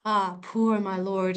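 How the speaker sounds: "Ah, poor my lord" slowly, lingering on POOR; a touch of woe through long vowels in "Ah, poor my lord"; woeful long vowels. Shown as a demonstration. Teacher demonstrating Juliet's emotional investment, woeful long vowels. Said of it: "a woe, uh, an emotional investment".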